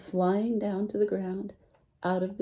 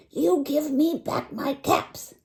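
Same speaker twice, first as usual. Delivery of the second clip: finger-wagging scold; 8 semitones higher, slower than usual. Acted. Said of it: "he shook his finger at them as he talked".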